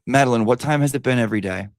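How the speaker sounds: mild yell to someone off-mic. Real, not acted. Streamer calling to Madeline about the start time, in a mild yell. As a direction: call out to get an answer. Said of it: "Hold on, let me yell".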